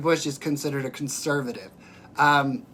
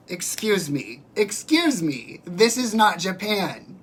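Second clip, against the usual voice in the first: indignant retort; 3 semitones higher, slower than usual. Retold or imitated. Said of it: "And I was like".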